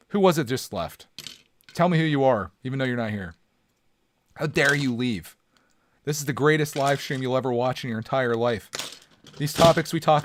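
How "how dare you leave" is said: hammed-up slow indignation; mock outrage. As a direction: play offended, drawn out. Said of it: "I'm angry".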